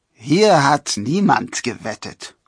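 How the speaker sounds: called-out denial. A narrator's reading. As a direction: deny it loudly, drawing out the words. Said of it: "rief derjenige".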